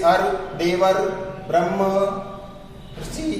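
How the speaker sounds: अर, देवर, ब्रह्म, ऋषि broken apart piece by piece; splitting into sounds. Shown as a demonstration. Teacher breaks the word down for students, syllable by syllable. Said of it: "इसमें अर की ध्वनि आ रही है".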